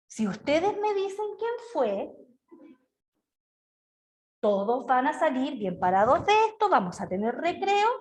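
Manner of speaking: soft, sugary threat; sweet but intimidating. Shown as a demonstration. Teacher to pupils demanding who did it, sweetly. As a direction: sound kind while menacing. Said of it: "un tono súper dulce, pero es igualmente intimidatorio".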